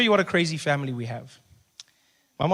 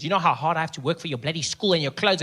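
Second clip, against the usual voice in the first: mock nagging parent. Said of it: "I hate it when parents say that".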